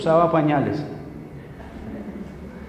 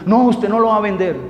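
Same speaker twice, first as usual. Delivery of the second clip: louder, higher sharp no; wife's firm refusal; 5 semitones higher, 6 dB louder than usual. Retold or imitated. Wife forbidding husband to sell the watch, loud and firm. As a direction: shut him down firmly.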